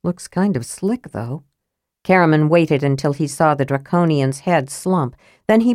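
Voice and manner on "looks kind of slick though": doubtful, trailing off quietly; dubious. Acted. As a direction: sound unconvinced as you fade. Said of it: "said Caramon dubiously".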